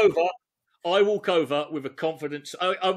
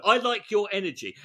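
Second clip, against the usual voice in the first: smarmy; 4 semitones higher than usual. Shown as a demonstration. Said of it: "oh no".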